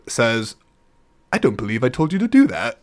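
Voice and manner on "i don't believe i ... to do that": quick, puzzled, lightly voiced mentor; hint of a baffled teacher; confused mentor. The Sphinx answering the watermelon question, mildly puzzled. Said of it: "confusingly so".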